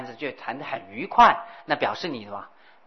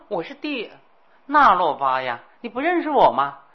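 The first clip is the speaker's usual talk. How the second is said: proud abbot Naropa; 4 semitones higher, 6 dB louder than usual. Acted. Naropa answers the old woman.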